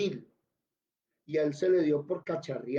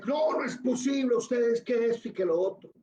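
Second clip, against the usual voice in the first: pitched high and a bit louder, can't believe it; outraged disbelief; 7 semitones higher, 3 dB louder than usual. Retold or imitated. A debtor calling the scammers, high indignant protest. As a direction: cry out that it can't be possible.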